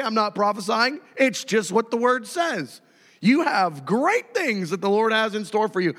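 ordinary delivery

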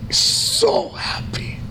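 way up high, breathy and slow; high airy quoted voice. Retold or imitated. Quoting his overjoyed friend, high and breathy. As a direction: squeak it out, drawn out. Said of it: "He goes".

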